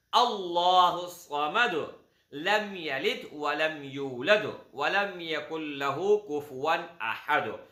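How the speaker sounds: slow, chanted recitation of the verses; Quranic recitation. Acted. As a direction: recite it slowly and devoutly, like in prayer. (धीमी, तिलावत जैसी पढ़त)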